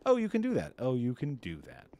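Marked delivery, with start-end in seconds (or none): 0.1-0.7 much higher, louder burst of delight; excited mock reaction. Streamer imitating casters checking off boxes, mock excited. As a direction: pipe up as an impressed casting director.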